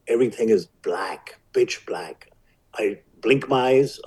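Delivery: whispered, breathless recollection of the dark; hushed retelling. Retold or imitated. Boy waking up blind, telling it in a whisper. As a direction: drop to a whisper as the fear comes back.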